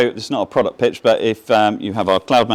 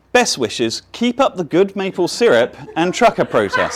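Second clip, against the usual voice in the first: amused reading; 6 semitones higher than usual. Retold or imitated. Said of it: "the absolute favorite part".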